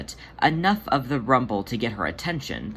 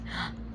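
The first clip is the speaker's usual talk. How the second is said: a quick breathless gasp; sharp gasp; 11 dB quieter than usual. Acted. Demeter hears Munkustrap is safe, sharp gasp. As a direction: catch the breath in surprise. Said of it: "Demeter tripped on her own breath".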